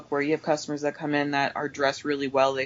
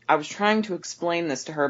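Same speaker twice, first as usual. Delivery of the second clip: ordinary delivery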